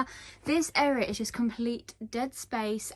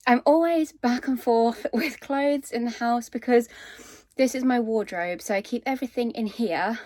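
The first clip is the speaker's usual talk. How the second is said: out of breath; 5 dB louder than usual. Real, not acted. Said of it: "I'm out of breath from going up the stairs".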